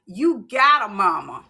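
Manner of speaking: firm, grounded mother setting her straight; lightly voiced mother, emphatic; mother's reminder. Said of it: "You know what my mama said?".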